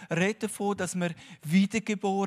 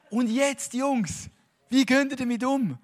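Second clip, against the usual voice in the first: Jesus' voice; 6 semitones higher, 4 dB louder than usual. Retold or imitated. Jesus voiced teasing the disciples.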